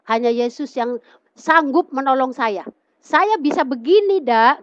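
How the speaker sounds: acted heartfelt insistence; retold fervent testimony. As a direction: testify earnestly on someone else's behalf, pitch climbing. Retells the man's fervent testimony.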